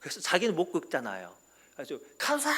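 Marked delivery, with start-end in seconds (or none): 2.2-2.5 high, loud call; old patient yelling for help; calling the nurse. Retold or imitated. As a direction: shout across the ward. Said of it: "불러요".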